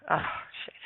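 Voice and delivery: whispered oh shit; hushed mock dismay; muttered aside. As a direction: breathe it under your breath. Officers' reaction repeated.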